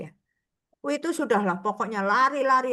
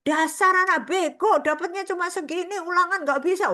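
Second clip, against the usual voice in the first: higher, louder insulting scold; harsh scolding; 9 semitones higher, 4 dB louder than usual. Retold or imitated. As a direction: tear into the child over a bad test. Parent scolding over test.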